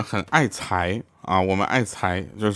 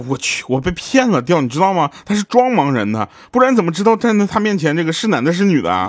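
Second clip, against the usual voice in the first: high, louder outraged realization; indignant colleague; 8 semitones higher, 3 dB louder than usual. Retold or imitated. Colleague tells Tiaotiao the blind man was faking, high indignant. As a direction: blurt it out, cheated and annoyed.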